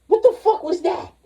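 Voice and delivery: sudden high-pitched what the fuck; jolted, blurting it out; startled outburst. Real, not acted. Reacting to the clip in shock.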